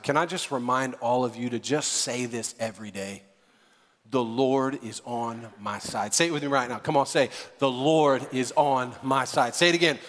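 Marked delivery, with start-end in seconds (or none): 4.1-6.1 low, slow, subdued affirmation; quiet declaration. Shown as a demonstration. Preacher modelling a daily affirmation for listeners, low and measured. Models line for congregation to repeat. 7.6-9.5 slow, deliberate call to repeat; measured affirmation. Shown as a demonstration. Preacher leading the congregation in the line, slow and measured.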